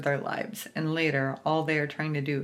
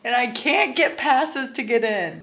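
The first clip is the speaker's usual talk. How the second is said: high, whiny pleading; whiny excitement; 7 semitones higher, 3 dB louder than usual. Real, not acted. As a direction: whine about wanting to go. Whiny excited vlog rant.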